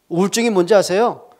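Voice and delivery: 높고 크게 외치는 설교; 회중을 향해 열을 올려 묻기. Acted. 설교 절정으로 올라감.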